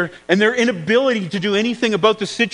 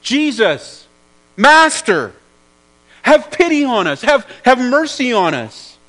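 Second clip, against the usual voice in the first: raised, pleading call from afar; desperate cry for help; 3 semitones higher, 4 dB louder than usual. Acted. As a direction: call out to the Master, begging for pity. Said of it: "equivalent to them yelling at the top of their lungs".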